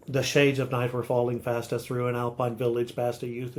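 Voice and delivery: "The shades of night were falling fast" in an unvarying da-DUM beat; sing-song meter. Shown as a demonstration. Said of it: "meter that's so consistent that it sounds like".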